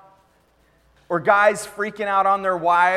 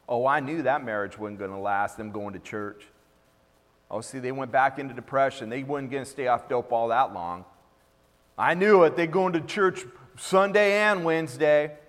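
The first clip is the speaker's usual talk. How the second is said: a low, sneering gossip's voice; mock gossip; 5 semitones lower than usual. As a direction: mimic the gossiping neighbours, snide. Gossiping onlookers mocked by preacher.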